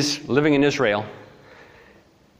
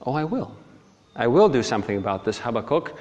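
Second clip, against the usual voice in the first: lightly voiced, composed God; understated divine reassurance; God answering; faster than usual. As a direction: answer the complaint calmly. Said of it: "God speaks to him and he says".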